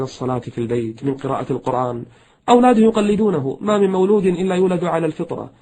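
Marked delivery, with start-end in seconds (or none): 2.5-5.5 emphatic preaching. Real, not acted.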